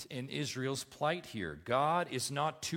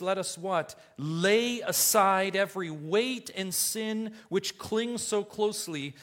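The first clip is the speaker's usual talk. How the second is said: raised, ringing scripture reading; preaching; 6 semitones higher, 5 dB louder than usual. Acted. Preacher reading Hebrews to his congregation, raised and ringing. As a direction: proclaim it to the whole congregation.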